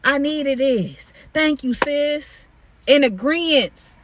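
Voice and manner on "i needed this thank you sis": a light mock of a gushing fan; grateful commenter. Mimicking commenters thanking the preacher, lightly mocking. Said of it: "under there in the comments".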